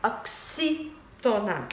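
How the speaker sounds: "Oxítona" slow, X sounded as KS; X pronunciation. Shown as a demonstration. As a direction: say "Oxítona" as ok-SÍ-to-na, softly. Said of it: "ele tem som de xi".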